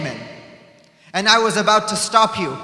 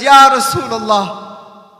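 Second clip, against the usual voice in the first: grieving plea; 4 dB louder than usual. Acted. Hussein pleading at his grandfather's grave, loud then fading.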